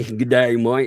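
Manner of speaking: playful fake Aussie greeting; badly faked Australian accent. Jokingly confessing he was the caller, mock Aussie accent. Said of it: "can do an Australian accent".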